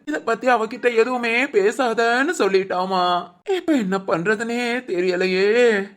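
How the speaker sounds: slow, drawn-out show of despair; overacted helplessness. Friend hamming up worry for the visitor, slow lament. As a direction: draw the words out in put-on helplessness. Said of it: "ஒரு லட்சத்துக்கு நடிக்கிறியேடா".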